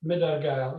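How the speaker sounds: The name said assuredly, as a local would; correct pronunciation. Shown as a demonstration. The speaker correcting the host's attempt at the band name, correct pronunciation. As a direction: model the name plainly for a learner. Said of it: "sorry if my pronunciation is wrong".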